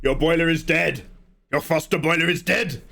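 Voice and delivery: gas company lady. Acted. Gas lady after her call to HQ, put-on blunt voice. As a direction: deliver bad news as the gas lady. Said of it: "British Gas lady was just like".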